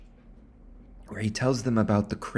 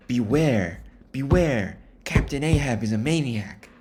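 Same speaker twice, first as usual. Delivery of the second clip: louder doom-laden warning; crazy old man warning; 4 semitones higher, 5 dB louder than usual. Retold or imitated. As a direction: warn them like a mad prophet. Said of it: "crazy old man who's like".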